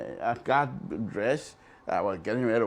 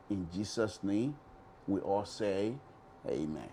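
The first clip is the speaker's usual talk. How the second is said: prayer. Real, not acted. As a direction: pray it sincerely to the Lord. Closing prayer on air.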